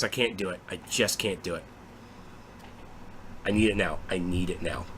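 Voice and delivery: low, soft, hammed-up longing; mock despair. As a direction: sink into playful agony at waiting. Mock agony over waiting for game.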